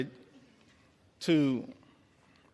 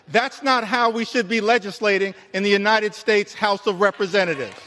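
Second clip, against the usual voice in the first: raised, emphatic floor-speech indignation; indignant rebuke; 3 semitones higher, 3 dB louder than usual. Real, not acted. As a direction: hammer it out louder, like a rebuke to the chamber.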